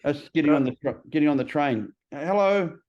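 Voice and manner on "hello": higher-pitched, sing-out hello; friendly greeting. Acted. Greeting someone getting on the train, friendly and higher.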